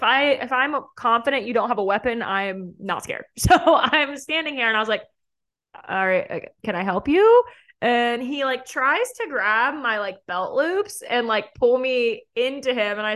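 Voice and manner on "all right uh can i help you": pointed, loud "can I help you?"; sharp and unimpressed, rising; incredulous. Retold or imitated. Cornered by guy in kitchen.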